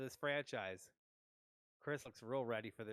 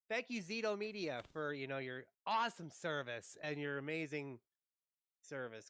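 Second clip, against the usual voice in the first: sarcastic thanks to the internet company; 2 semitones higher than usual. Real, not acted. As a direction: fake praise, dripping sarcasm. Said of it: "Total sarcasm in that".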